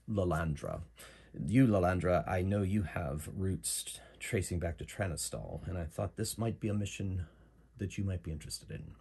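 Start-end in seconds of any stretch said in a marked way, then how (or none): 1.5-8.9 put-on Mirandol's British accent. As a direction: make the pitch with a light English accent. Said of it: "So she has a British accent".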